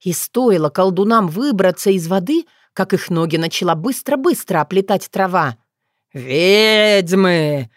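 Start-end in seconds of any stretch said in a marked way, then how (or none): 6.1-7.7 louder snarling sorcerer voice; enemy sorcerer growls; growled. A narrator's reading. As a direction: snarl the word at them. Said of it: "прорычал один из мужчин".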